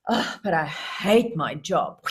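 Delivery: slow, heavy complaint; acted grumbling. Owner complaining to puppy dog about job, grumbling. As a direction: drag out the groan of reluctance.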